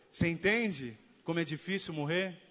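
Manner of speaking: ordinary talk, nothing marked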